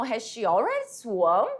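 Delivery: slow question rising in mild surprise on swum; surprised intonation. Shown as a demonstration. Teacher demonstrating a mother's question about the swimming class, mildly surprised. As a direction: let the last word swing up, a little surprised. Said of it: "Então, eu faço essa entonação".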